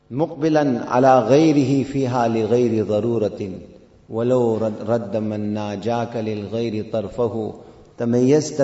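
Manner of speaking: chanted Arabic verse, flowing and quick; تلاوة شعر بإيقاع سريع; poem recitation. Acted. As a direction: recite the poem like a practised qari.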